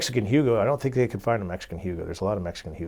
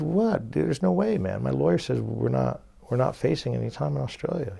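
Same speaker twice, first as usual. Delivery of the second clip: retold disbelief; 4 semitones higher than usual. Protesting to the officer again.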